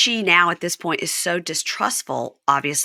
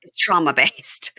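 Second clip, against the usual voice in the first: whisper; 3 semitones lower, slower than usual. Real, not acted. Aside joke about baby voice.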